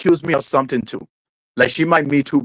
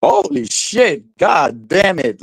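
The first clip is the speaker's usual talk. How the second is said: stunned disbelief; 3 semitones higher, slower than usual. Real, not acted. Stunned reaction to matchup idea.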